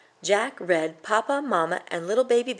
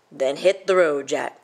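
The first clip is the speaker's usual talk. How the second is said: a bit louder, gruff dismissal; troll shouting; 2 semitones lower, 5 dB louder than usual. Acted. Troll sending Jack off, mildly shouted. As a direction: shoo the boy away. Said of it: "shouted the troll".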